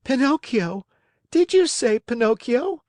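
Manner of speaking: high, astonished echo; startled puppet. Acted. Pinocchio hears his own name, high startled voice. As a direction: pipe up in childlike astonishment.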